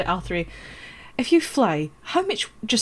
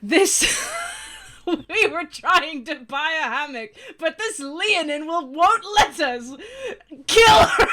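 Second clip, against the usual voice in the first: put-on distressed kid; 5 semitones higher, slower than usual. Kid begging the hippo shopkeeper for help, rising to a shrill high cry. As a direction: whine it like a kid tattling for help.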